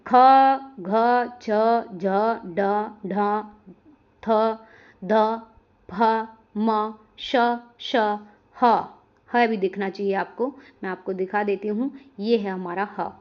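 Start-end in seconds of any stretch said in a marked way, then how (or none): 0.1-8.7 ख, घ, छ each drawn out with more breath; aspirated sounds. Shown as a demonstration. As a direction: recite ख, घ, छ one at a time with a puff of air. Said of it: "इनको बोलने में ज़्यादा समय लगता है".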